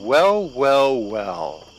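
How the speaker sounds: slow, lordly villain drawl; deep menacing voice. A narrator's reading. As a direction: savour each word like a predator. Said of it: "a deep voice rang out".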